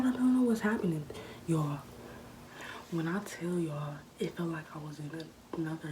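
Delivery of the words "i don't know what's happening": high, loud mock distress; stoned panic, played up; acted-out breakdown. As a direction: wail it as in a retold meltdown. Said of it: "I start having a breakdown".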